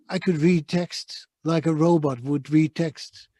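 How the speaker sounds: slow flat robotic reading. Shown as a demonstration. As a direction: read like a robot would. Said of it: "I sounded very robotic".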